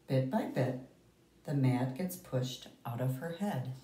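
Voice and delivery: lively picture-book read-aloud; reading to children. Acted. Teacher reading to the class, storytelling voice. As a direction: tell the story to a class of kids.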